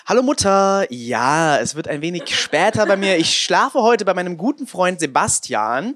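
mock sober drunk teen on the phone; lightly faking sobriety to mom; town drunk. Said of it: "so besoffen auf so einer Party".

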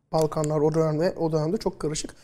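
talking around a candy in the mouth; sucking a hard candy. Real, not acted. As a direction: speak with a sweet tucked in your cheek. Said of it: "ağzımda şeker var da". (ağzında şekerle konuşarak)

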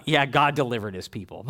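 mildly offhand, underplayed; bored, mundane. Jaded believer shrugging at God's deliverance, unimpressed. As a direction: say it like stale old news. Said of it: "get old or mundane to us".

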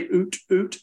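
short oot calls; oot sounds. Shown as a demonstration. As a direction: oot said into a call. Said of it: "But I say".

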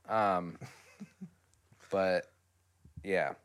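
usual speaking voice

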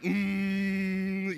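drawn-out closed-mouth "mmm"; baby's grinning squeal. Retold or imitated. Speaker imitating what a grinning baby does, long squeaky hum. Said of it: "they grin, they're like".

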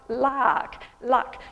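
luck with an open, unrounded u, mouth wide. Shown as a demonstration. Friend showing her own way of saying luck. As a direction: say "luck" with the mouth going right out. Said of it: "Whereas I say look and luck".

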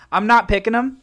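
loud, laughing protest; excited. Real, not acted. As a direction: insist over a laugh.

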